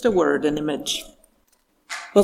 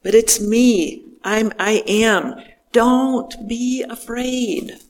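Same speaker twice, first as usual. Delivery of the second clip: tender reassurance; 3 semitones higher, slower than usual. Retold or imitated. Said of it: "spoken with great compassion and tenderness".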